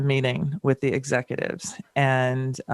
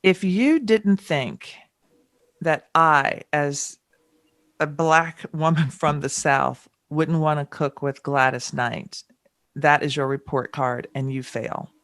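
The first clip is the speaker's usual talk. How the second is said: retold firm confrontation; slower than usual. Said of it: "I called this meeting and I said".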